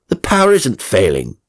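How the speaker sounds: exasperated shout. Acted. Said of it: "he shouted".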